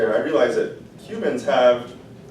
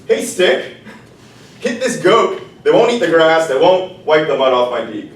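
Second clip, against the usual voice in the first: bossy rooster order; 3 semitones higher, 5 dB louder than usual. Acted. The rooster ordering the stick, loud and bossy. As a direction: demand it, growing louder.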